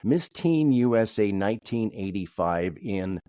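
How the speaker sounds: ordinary talk, nothing marked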